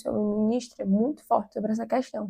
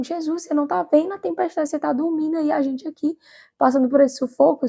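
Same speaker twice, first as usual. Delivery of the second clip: higher-pitched, mildly frantic mock plea; desperate disciples; 5 semitones higher than usual. Disciples complaining to sleeping Jesus in the storm, mildly desperate. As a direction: imitate disciples in mild desperation. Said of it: "os discípulos ficam desesperados".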